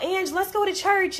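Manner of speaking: high-pitched, slow imitation of a devout friend; Queen. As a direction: coax a friend in a high, drawn-out voice. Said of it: "she was just humble and all about God".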